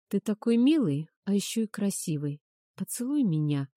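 нежно, с лаской; мягко уговаривать; ласково. Acted. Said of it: "ласково сказала я". (ласковым голосом)

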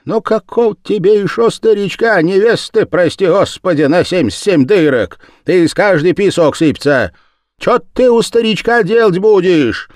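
put-on loud, jeering elderly peasant woman; mocking old woman. A narrator's reading. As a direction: ridicule her old friend's wish for a husband. Darya mocks Sima, much higher.

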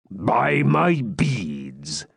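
put-on very slow, drawn-out old hermit; creaky old hermit. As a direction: stretch it out like a tipsy old friar. Hermit startled mid-song.

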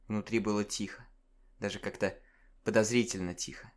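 тихо, заметно тише; говори, будто боишься нарушить тишину; приглушённо. A narrator's reading. Напряжённая тишина в подъезде. (приглушённое повествование)

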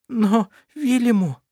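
high, slow sobbing plea; a hint of a sob on her name. A narrator's reading. Mother sobbing out her daughter's name. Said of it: "всхлипнула Габриэла".

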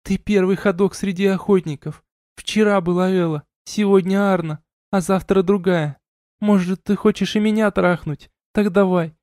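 a hint of drunken scorn; bitter young woman. A narrator's reading. Elina accusing, bitter.

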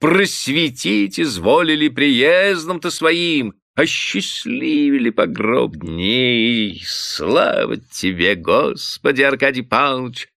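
high, slow gushing cry; tipsy bailiff gushing at his master, high and drawn out; exclaiming fawningly. A narrator's reading. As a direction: gush over the master. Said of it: "запел пуще прежнего".

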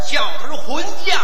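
put-on Shandong accent. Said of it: "学山东音".

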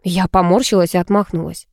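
ordinary delivery

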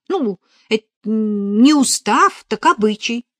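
put-on high, loud, eager girl's voice; chattering novice full of news; excited young novice. A narrator's reading. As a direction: gush the big news with drawn-out key words. Надежа explains.

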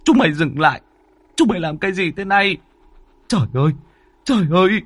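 angry shout. A narrator's reading. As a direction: scream it at the bandits, building. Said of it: "Ông quát".

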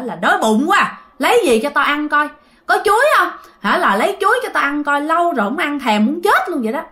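hungry demand. Retold or imitated. Revived grandpa demanding bananas from family, pushy. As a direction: demand bananas like a greedy old man. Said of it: "ổng mới nói rằng á".

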